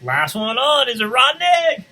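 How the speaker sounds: high, loud playful dare; taunting chicken voice. Acted. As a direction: tease like a bossy hen.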